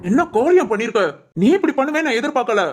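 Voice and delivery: mildly angry, hurt reproach; reproachful scolding. Acted. Husband confronting wife over what she did, mildly angry reproach. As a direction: scold her as if let down.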